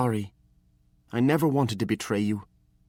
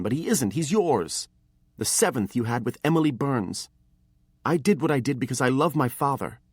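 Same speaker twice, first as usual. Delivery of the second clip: much higher, louder furious accusation; angry accusing boy; 9 semitones higher, 5 dB louder than usual. A narrator's reading. Apprentice accuses his master about Morgan, high and angry. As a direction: throw every charge at him.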